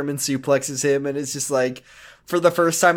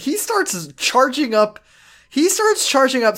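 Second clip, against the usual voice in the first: higher, slow, dramatic "charging up"; dramatic hype; 8 semitones higher, slower than usual. Real, not acted. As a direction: build it like an epic trailer. Hyping the villain move.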